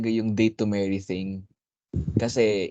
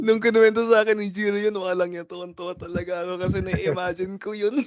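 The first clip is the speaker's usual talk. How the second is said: laughing while talking; 6 semitones higher, faster than usual. Real, not acted. Laughing recalling the joke.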